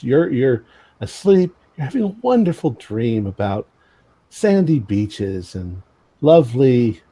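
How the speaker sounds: storyteller narration with dramatic pauses; game master scene setting. Acted. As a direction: lead the listener from dream into horror.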